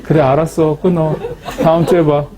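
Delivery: chuckling while replaying the call; can't keep a straight face; laughing through it. Real, not acted. Retelling phone call, laughing. (웃음을 참지 못하며 통화 재연)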